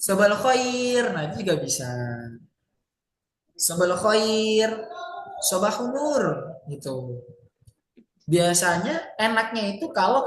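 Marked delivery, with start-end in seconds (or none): 0.0-1.1 "Sobal khair" with a drawn-out, falling khair; salam berintonasi. Shown as a demonstration. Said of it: "Kayak selamat pagi gitu". 3.5-6.2 "Sobal khair" drawn out, answered by a falling "sobahun nur"; salam berintonasi. Shown as a demonstration. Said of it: "Sebenarnya sama kayak Indonesia".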